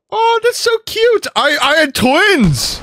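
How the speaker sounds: very high, slow falsetto coo; mock cooing mother. Gamer pretending to be a new mom over twins, high and slow. Baby animals born in game.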